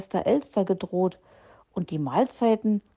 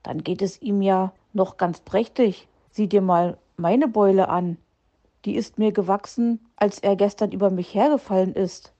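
growling. Acted. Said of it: "knurrte Herr Fuchs".

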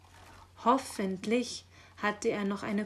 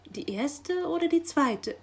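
higher, louder pressing question; insistent questioning; 8 semitones higher, 6 dB louder than usual. A narrator's reading. Magpie pressing the raven for details, insistent. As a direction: press for an exact answer. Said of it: "wollte es die Elster genau wissen".

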